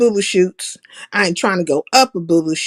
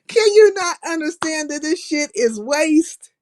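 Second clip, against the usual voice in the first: fighting back laughter; 7 semitones higher than usual. Real, not acted. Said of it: "I'll start laughing".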